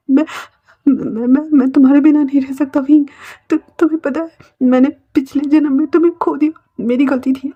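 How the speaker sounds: stammered, remorseful plea; acted anguish, voice lifting; desperate confession. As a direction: confess your fault, stumbling on the words. Continues pleading, confesses fault.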